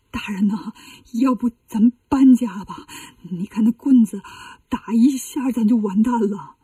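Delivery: halting, nervous monk's suggestion; frightened advice. Acted. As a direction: urge the abbot timidly, faltering as you go. Scared monk advising his abbot. (胆怯地劝说)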